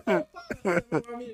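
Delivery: high, slow Italian exclamation; italian accent portuguese. Pretend. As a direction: cry it out like a cartoon Italian. Italian caricature banter.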